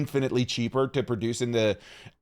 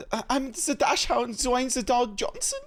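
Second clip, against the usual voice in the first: put-on higher, silly German-accented dog voice; German dachshund voice; 8 semitones higher than usual. Host shows the voice he does for his wiener dog, silly and high. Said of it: "that's the voice that I do for my dog".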